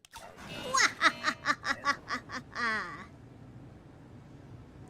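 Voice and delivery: evil cackle, laughing hard; supervillain laugh. Pretend. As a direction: laugh like a gleeful villain. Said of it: "Supervillain laugh".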